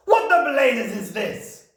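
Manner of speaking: high, slow outraged yell; yelling Trunchbull. A narrator's reading. Headmistress seeing writing on the board, loud outraged yell. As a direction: bellow the question in outrage. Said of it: "yelled the Trunchbull".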